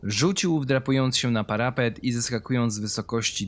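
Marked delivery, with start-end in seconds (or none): none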